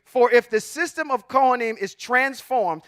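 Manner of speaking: firm, emphatic delivery of "For if the system of Kohanim is transformed"; emphatic reading. Shown as a demonstration. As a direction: lean firmly on "system" and "transformed". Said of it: "it says in twelve emphatically".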